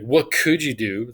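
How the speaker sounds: sneering question with the weight on "could"; scoffing, dismissive "What could you do?"; snide intonation. Shown as a demonstration. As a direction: lean on "could" like an asshole looking down on them. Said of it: "I could act like an asshole".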